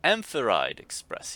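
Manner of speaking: high, loud and slowed, spelling it out; talking down to a child. Acted. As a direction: explain like to a dim child. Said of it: "to a particularly dim-witted child".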